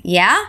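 rising questioning "Yeah?"; "Yeah?" with a rising tune to keep her talking; "Yeah?" lifted at the end like a question. Shown as a demonstration. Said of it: "notice the difference in intonation".

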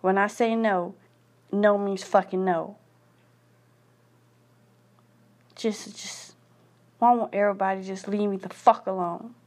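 venting fury with hard punched curses; bitter angry rant. Real, not acted. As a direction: spit out every curse at the world. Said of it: "I am so mad".

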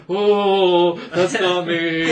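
a hint of sheepish Homer Simpson backing away; sheepish denial. Employee denying the rumor to manager, lightly sheepish. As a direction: deny it, slinking off embarrassed. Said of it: "Homer Simpson going back into the bushes".

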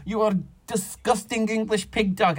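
lightly voiced sneering stranger; a hint of scornful foreigner; playful hammed-up insult; mock disgusted insult.

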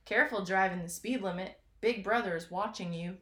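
a hint of a bad Southern accent. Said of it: "Don't know why we're Southern all of a sudden".

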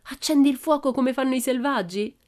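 high, loud, thrilled question; enraptured cry. A narrator's reading. Tommy asks Pippi about lighting fire, enraptured. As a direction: ask it loudly, full of wonder. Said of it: "gridò rapito".

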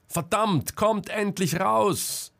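frantic curse and plea; desperate yell. A narrator's reading. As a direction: scream at the hut to come out. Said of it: "schrie Selma verzweifelt".

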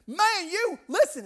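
loud, high redneck call; Tennessee redneck. Retold or imitated. Redneck man running up to Marcus, hollering urgently. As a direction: holler for attention with a Southern twang. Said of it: "the most Tennessee redneck man you've ever seen".

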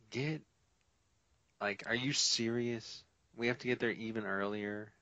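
repeating the news back to his roommate, incredulous and exasperated. Retold or imitated. Roommate retold, incredulous outburst.

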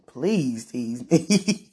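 very drawn-out playful plea; playful pleading. Retold or imitated. Begging to be teased, playful pleading. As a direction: stretch it out slowly, begging in fun.

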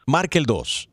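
lightly done automated recording; phone menu voice. Acted. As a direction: read it like a robocall message. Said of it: "llamada automatizada".

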